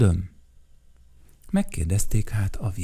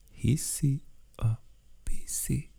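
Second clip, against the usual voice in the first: teasing whisper; 3 semitones higher, 7 dB quieter than usual. Acted. Flower teasing answer.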